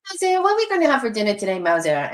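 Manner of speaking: high, fast singsong chatter; cat-language chatter. Retold or imitated. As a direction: rattle it off high and quick in the couple's cat talk. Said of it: "talk in cat language".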